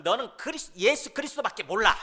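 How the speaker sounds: acted scornful accusation; mock taunt. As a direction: needle them as an outsider would. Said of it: "그리스도라고 욕을 할 때는".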